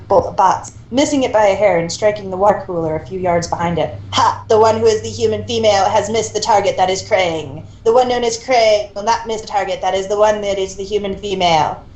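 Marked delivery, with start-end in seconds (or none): 4.1-11.8 cocky robot drone. Acted. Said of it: "The blue Krang droned cockily".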